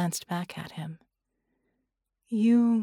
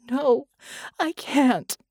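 high, louder pained cry; anguished denial; 5 semitones higher, 4 dB louder, slower than usual. A narrator's reading. Woman refusing Red's plea, crying out high and loud.

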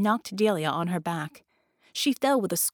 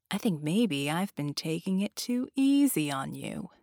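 genie. Acted. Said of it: "the genie said".

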